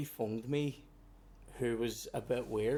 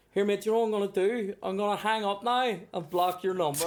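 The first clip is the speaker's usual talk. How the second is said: mock firm; 7 semitones higher, 4 dB louder than usual. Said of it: "I went".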